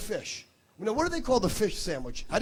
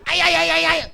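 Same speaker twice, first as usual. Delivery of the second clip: mock ay ay ay; 8 semitones higher, 10 dB louder than usual. Mock Latin exclamation, laughing.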